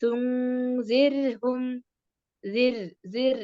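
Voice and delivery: slow തുങ്സിർഹും with a light സിർ. Shown as a demonstration. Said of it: "അതാ ഞാൻ പറഞ്ഞത്".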